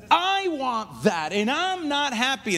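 put-on slow, drawn-out spoiled-kid complaint; whining child. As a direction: demand it like a sulky four-year-old. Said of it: "That sounds like every child".

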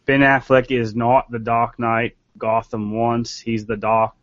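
put-on slow, halting go at a Boston accent; attempted Boston accent. Reading a puzzling tweet about Ben Affleck, attempted Boston accent. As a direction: read it out in a shaky-footed Boston accent. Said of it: "I can't do it".

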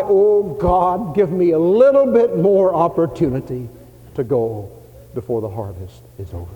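loud, high pleading prayer; crying out to God. Retold or imitated. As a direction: cry out to God with your whole chest. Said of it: "men and women who cry".

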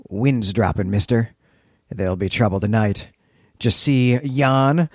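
a rough hint of a Cornish sea captain accent; pirate accent. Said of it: "Cornish accent that we know as talk like a pirate".

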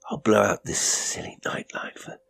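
soundless, breathy whisper; thin whisper. A narrator's reading. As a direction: hush her back to sleep. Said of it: "His voice was thin, dreadfully soundless".

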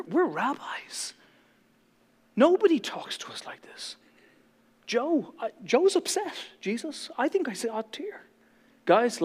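hushed, indignant whisper to his friends; a Pharisee grumbling to his mates; whispering Pharisee to buddies. Retold or imitated. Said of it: "He's like".

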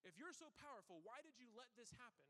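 half-hearted angry complaint to God. Retold or imitated. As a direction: imitate someone demanding answers from God, a touch heated. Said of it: "get angry at God".

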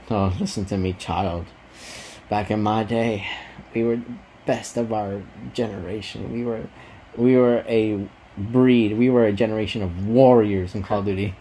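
lightly voiced old grandpa; very old man. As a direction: tell it like a proud elder. Playing old grandpa telling stories.

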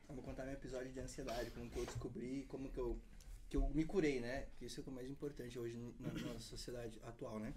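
chewing while talking; mouth full. Real, not acted. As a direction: talk through a mouthful. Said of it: "Deixa eu mastigar primeiro".

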